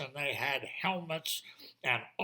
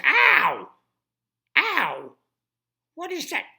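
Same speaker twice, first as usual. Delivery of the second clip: high pained yelps of a guard; guard yelping; 9 semitones higher, 11 dB louder, slower than usual. Acted. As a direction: cry out as if your ear was pulled.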